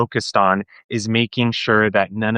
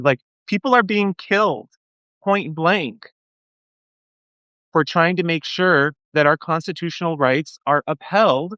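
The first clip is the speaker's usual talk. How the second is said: real agitation, pitched higher than usual; impassioned and upset, voice riding high; worked up; 5 semitones higher than usual. Real, not acted. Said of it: "worked up about this".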